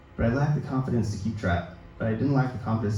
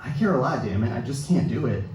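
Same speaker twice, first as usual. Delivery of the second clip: joking laugh. Retold or imitated. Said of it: "he jokes".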